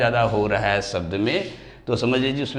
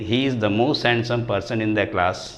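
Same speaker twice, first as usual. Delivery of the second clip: slow example reading; much slower than usual. Shown as a demonstration. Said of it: "teacher reads example sentence".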